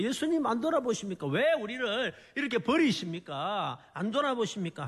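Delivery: imitated disciples' reproach to Jesus; resentful pleading. Disciples accuse Jesus of abandoning them, resentful. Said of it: "원망이 섞인 말로".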